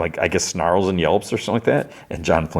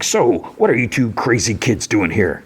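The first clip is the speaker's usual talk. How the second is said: higher put-on chummy voice; Sweet Tooth; 5 semitones higher than usual. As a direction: hail them as a hammed-up old pal. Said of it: "Sweet Tooth comes up to him".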